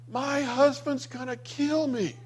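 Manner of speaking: high, slow, mock-wailing plea; a lightly voiced hysterical woman, slow and high; imitating a crying woman's panic, pitched high; retold wailing. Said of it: "breaks down crying".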